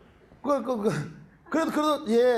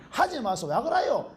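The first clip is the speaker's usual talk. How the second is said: Gyeongsang dialect plea; 3 semitones higher, slower than usual. Retold or imitated. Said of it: "경상도 말로".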